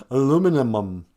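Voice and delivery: "Aluminum" loud with an extra "um" tacked on; tripping over syllables. Shown as a demonstration. Retrying a hated word, "Aluminum" with one syllable too many. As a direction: overshoot the ending of "Aluminum". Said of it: "I hate that word".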